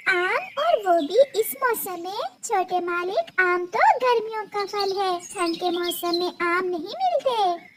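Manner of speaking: small high soft bird voice; timid little bird. Acted. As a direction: ask meekly, like a tiny servant girl. Little bird objects to mistress.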